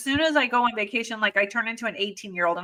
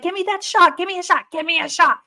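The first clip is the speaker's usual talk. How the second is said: high, urgent demand for a shot; stung tourist begging a helper for a shot; desperate pleading; 7 semitones higher, faster than usual. Retold or imitated. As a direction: beg for the shot in pain.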